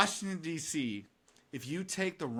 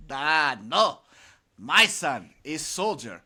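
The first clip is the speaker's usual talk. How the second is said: put-on Russian joke accent. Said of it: "second man goes".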